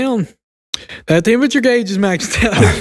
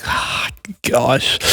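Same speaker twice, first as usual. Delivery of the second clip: soft, whispered ah gosh, a little lower; retold dismayed sigh; 4 semitones lower, 5 dB quieter than usual. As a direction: breathe it out under your breath in mock dismay. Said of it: "we're like".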